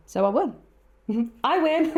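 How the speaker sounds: slow, gloating win dissolving into laughter; laughing triumph. Real, not acted. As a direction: savour the victory, laughing.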